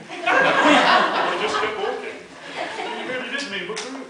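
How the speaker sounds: laughing while talking; words broken by laughter. Real, not acted. Laughing through the punchline.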